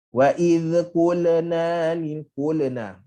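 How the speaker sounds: slow "qulna" with an echoing bounce after l and n; bouncing letters. Shown as a demonstration. Teacher shows the faulty bouncing recitation. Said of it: "Ni semua melantun".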